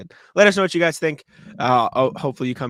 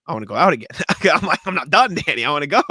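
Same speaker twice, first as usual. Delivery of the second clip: louder, insistent retold plea; drunken pleading; 5 dB louder, faster than usual. Drunk man begging his friend to go back out, insistent. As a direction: plead to keep the night going, half-laughing.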